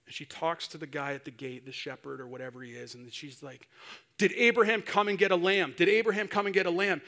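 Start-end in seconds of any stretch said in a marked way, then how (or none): 4.2-7.0 louder, acted frantic questioning; mock-panicked mother demanding an answer; freaking out. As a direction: repeat it urgently, growing hurried. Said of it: "she's freaking out".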